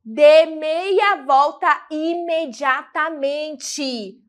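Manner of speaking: slow, stern command, each word weighed; irritated order. Shown as a demonstration. Teacher demonstrating an irritated mother's order, slow and stern. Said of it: "Tá irritada".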